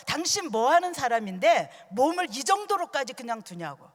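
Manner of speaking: mild mock telling-off from a doctor; lightly acted exasperated rebuke; retold scolding. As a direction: imitate a doctor reproaching a careless patient. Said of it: "의사가 막 야단을 치면서".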